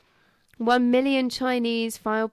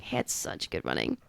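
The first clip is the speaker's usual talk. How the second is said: much lower, quiet deep voice; 7 dB quieter than usual. Pretend. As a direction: drop into a deep rumble. Joke low voice.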